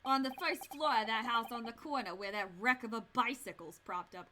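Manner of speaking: British inspector explaining himself; matter-of-fact British copper; Inspector Gregson. Acted. Inspector explains his fee to visitors, British accent. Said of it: "don't wanna do a British accent".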